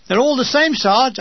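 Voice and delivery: gently humouring the sergeant; kind, placating tone; kindly. Acted. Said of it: "I said kindly".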